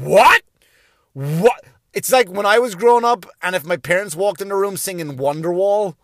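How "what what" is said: outraged disbelief. Acted. Comedian as a kid whose parent joins TikTok, loud outraged disbelief. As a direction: squawk it like an appalled kid.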